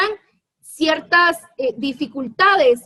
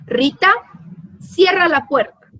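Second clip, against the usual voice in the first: "Rita, cierra la puerta" as a firm, louder command; giving an order; 3 semitones higher, 3 dB louder than usual. Shown as a demonstration. Teacher reading the command sentence, commanding. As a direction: order Rita to shut the door. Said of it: "lo leo de la siguiente manera".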